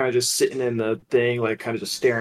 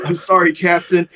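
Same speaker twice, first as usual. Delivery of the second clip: laughing apology; 5 semitones higher, 5 dB louder than usual. Real, not acted.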